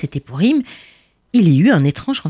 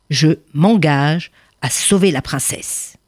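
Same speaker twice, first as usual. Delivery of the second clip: firm voice; 4 semitones lower than usual. Acted. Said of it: "répondit d'une voix ferme".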